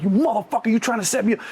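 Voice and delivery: high-pitched, heated challenge; angry accusation. Retold or imitated. Buyer confronting the Colombian at gunpoint, furious. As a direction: confront him as a traitor.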